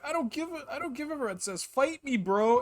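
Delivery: put-on spilled-drink frat boy snapping back; drunk frat boy wizard. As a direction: play the sloppy party bro wizard. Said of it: "And he's like".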